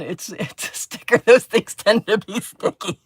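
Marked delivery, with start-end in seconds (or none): 1.2-3.0 sarcastic. Acted. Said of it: "put some free sarcasm in there".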